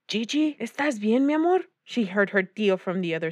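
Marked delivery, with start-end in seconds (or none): 0.1-1.7 tender, higher-pitched check-in; concerned uncle. A narrator's reading. Uncle to crying niece through the door, concerned. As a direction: ask lovingly, lifting the pitch at the end.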